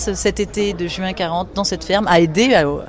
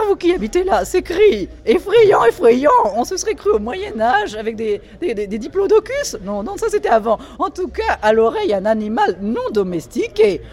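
Diane's voice; 6 semitones higher than usual. Acted. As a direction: play the shrill grande dame fussing at breakfast. Reading Diane's lines.

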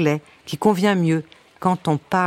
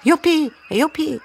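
very high, drawn-out whoops; gleeful cry; 10 semitones higher than usual. A narrator's reading. Lone brown hen walking backwards, crying out gleefully. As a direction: squeal it slowly like an excited hen. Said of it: "en criant".

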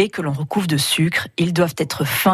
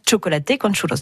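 Spanish pronunciation. Shown as a demonstration. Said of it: "ça se prononce vraiment".

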